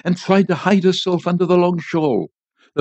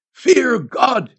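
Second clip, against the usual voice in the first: higher-pitched preacher's command; solemn exhortation; 7 semitones higher than usual. A narrator's reading. Priest's final word to the people, exhorting cry. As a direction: exhort them from on high.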